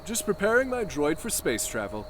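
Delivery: hushed whisper to the droid; whispered aside. Acted. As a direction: keep it under her hearing.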